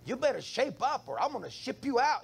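lightly voiced tough-love dad; stern dad talk. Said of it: "I talk to them like".

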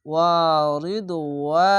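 sung Arabic recitation; Quran recitation. Shown as a demonstration. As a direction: recite as if in a mosque, long and full. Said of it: "এক আলিফ টেনে পড়বেন".

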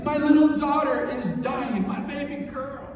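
high-pitched acted plea, loud then dropping; desperate pleading. Preacher as father begging Jesus for his dying daughter, desperate pleading. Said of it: "He was pleading with him".

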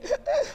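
sharp high gasp; panicked gasp. Retold or imitated. Mom retelling her panic, high frantic gasp.

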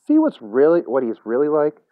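high, pointed challenge; scornful, rising see-for-yourself; I-told-you-so. A narrator's reading. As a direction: throw it at him as proof. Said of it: "as if to say".

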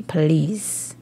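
ordinary talk

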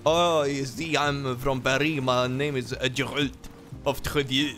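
lightly put-on French accent. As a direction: introduce yourself with a French accent. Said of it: "He's French".

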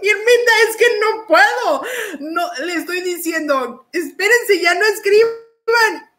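high, exasperated amused plea; fighting laughter. Real, not acted. Host explaining to Irmita she cannot cope, fighting laughter. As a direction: plead while holding back giggles. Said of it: "me gana la risa".

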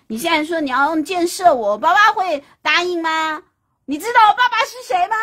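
high, loud, fast taunting; arrogant brat. Acted. Spoiled sun boasting to Houyi, high loud fast sneer. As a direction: sneer it like a spoiled rich kid.

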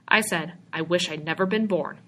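firm, deliberate repeat of 'I wish I'd never been born'. Acted. George repeats his wish firmly to the stranger, firm. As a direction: plant each word, no doubt left. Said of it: "George repeated firmly".

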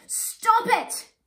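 little warthog shouting to be heard; squeaky cry. Acted. Ngiri stopping the fight, loud squeaky cry. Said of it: "in a squeaky voice".

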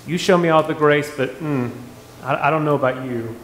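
a light hint of a judgy church lady. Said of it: "that church lady type thing".

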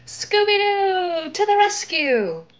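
high, slow cartoon dog call; a heroic dog's battle cry; Scooby dog voice. Scooby swinging in to save the gang, in a high dog voice.

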